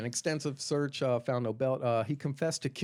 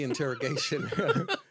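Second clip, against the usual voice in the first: laughing; 3 semitones higher, 3 dB louder than usual. Real, not acted. Laughing mid-sentence.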